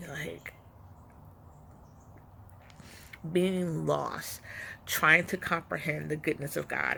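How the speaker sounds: talking around a mouthpiece; something in mouth. Real, not acted. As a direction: speak with something in your mouth. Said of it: "wearing something in my mouth".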